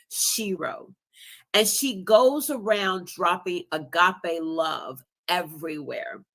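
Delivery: slow, gentle storybook reading; reading a picture book. Acted. Guest reading her children's book to viewers, slow and gentle. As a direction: read it out like a bedtime story, slowly. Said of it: "I wanna read this briefly".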